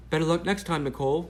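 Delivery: high, loud mock British reporter; a hammed-up British accent, pitched high. Reporter's DM read in a mock British accent. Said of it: "I'm doing her British accent".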